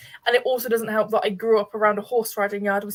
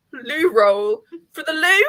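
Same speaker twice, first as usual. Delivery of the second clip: puzzled; 4 semitones higher, 5 dB louder, slower than usual. Retold or imitated. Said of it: "I was like".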